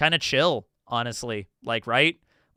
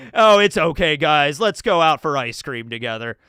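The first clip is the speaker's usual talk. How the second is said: mock Jersey accent; 4 semitones lower than usual. Chiffon consoling the group about ice cream in a light Jersey accent. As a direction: cheer up the team in a thin Jersey accent. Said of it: "speaks with a Jersey accent".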